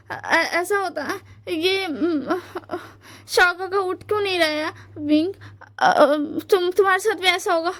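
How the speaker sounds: high, halting, near-tearful panic; panicked. Retold or imitated. Husband panicking beside the fainted friend, stammering and near tears. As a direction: stammer out the fear, voice breaking at the end. Panicked partner fears for Wing.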